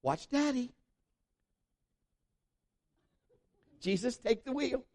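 high-pitched, strained dad voice; comic dad at wit's end; exasperated dad. Retold or imitated. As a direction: announce a mock-desperate stunt to the kids. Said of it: "He said".

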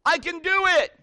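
high, loud confident holler; loud demonstrating call. Acted. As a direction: shout it out to the mountain. Dad demonstrates shouting to echo.

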